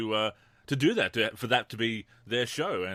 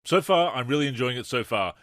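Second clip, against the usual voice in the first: self-mocking echo; 5 dB louder than usual. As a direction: parrot his own line with a mocking bite. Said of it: "That's some good mar".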